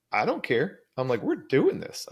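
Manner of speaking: high, emphatic retort to dad; insistent retort. Retold or imitated. Son insisting to his dad in the parking lot, high and emphatic. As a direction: push back hard, pitch way up.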